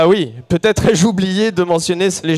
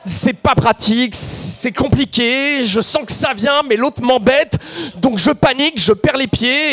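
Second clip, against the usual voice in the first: higher, hammed-up flustered complaint; mock panic; 6 semitones higher than usual. Storyteller reliving the interrupted act, in mock panic. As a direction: voice climbs as things get out of hand.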